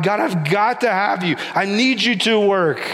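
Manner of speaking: crying out to God. Retold or imitated. Hezekiah cries out to God with the army outside, high and urgent. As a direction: pitch it up and cry out desperately. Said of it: "he cries out to God".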